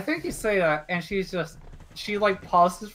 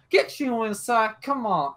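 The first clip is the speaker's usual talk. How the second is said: mildly raised, impatient order; acted scolding, pitched up; annoyed yelling; 5 semitones higher than usual. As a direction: hustle someone indoors crossly. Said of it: "annoyed and yelling at me".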